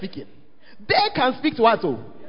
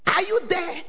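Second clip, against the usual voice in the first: retold shout; 6 semitones higher than usual. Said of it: "He shouted in English".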